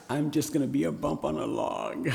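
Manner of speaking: real laugh bursting through. Real, not acted. Laughing aside to congregation.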